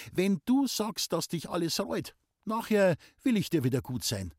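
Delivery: lightly voiced girl, a touch of teasing in it; playful young woman. A narrator's reading. Loni laughingly bargains with Muckel, a lightly voiced playful girl. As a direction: bargain with him half in jest.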